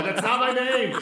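loud, high indignant yell. Acted. Steven yelling into the hallway that it's wrong, indignant shout. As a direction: holler it down a hallway. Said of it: "He'll yell into the hallway".

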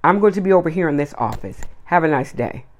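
a lightly put-on polite office voice, crisp and firm; professional voice. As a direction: brush the customer off in a courteous business tone. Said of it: "I put on my professional voice".

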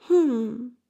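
thoughtful, drawn-out "hm"; pondering hum. A narrator's reading. Bengele weighs a tempting offer, pondering hum. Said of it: "machte Bengele und neigte den Kopf zur Seite".

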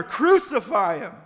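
high, full-force slow roar; mob's roar. A narrator's reading. Mob drowning out Pilate's question, roaring. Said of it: "the mob roared even louder".

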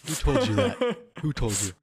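high, loud indignant squawk; mock outrage. Real, not acted. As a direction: act shocked and offended.

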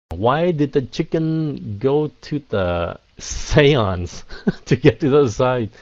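slow setup then laughing punchline; joke told with a laugh. Shown as a demonstration. Teacher reading a viewer's pun aloud. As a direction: read the joke slowly, laugh into the end. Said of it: "telling a joke with a laugh".

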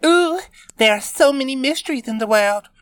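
high, fast mock-mysterious ooh; sarcastic, eyes rolling. A narrator's reading. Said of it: "she rolled her eyes".

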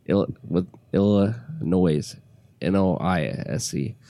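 slow, creaky low vocal fry. Real, not acted. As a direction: let the voice crackle into fry. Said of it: "I got a little vocal fry happening".

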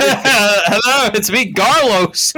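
high, goofy character voice; silly new character. Acted. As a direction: ham up a goofy new kid. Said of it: "Our new character".

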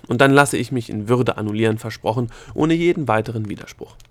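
loud, emphatic promise; calling out. A narrator's reading. Gnome promising to go with dignity, calling out. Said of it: "rief er".

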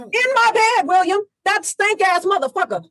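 furious yelling. Acted. Jocelyn raging at affair.

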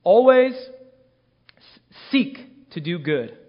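slow deliberate reading of "Always seek to do good"; drawn-out emphasis. Shown as a demonstration. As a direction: lean on "Always" then slow down. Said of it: "Look again at verse fifteen".

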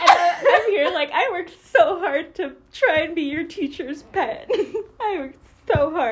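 laughing through the words; giggling while protesting; laughing about trying to be teacher's pet. Real, not acted. Laughing while recalling effort.

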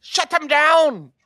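mock angry hype man shout. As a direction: bark it at the crowd like a hype man. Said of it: "all of a sudden just come and be like".

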